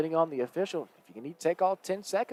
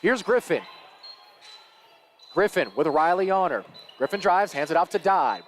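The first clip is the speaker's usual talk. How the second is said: lively basketball commentary; live play-by-play; 4 semitones higher, 4 dB louder than usual. Real, not acted. Commentator following a drive to a foul, live play-by-play. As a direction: call the action as it unfolds.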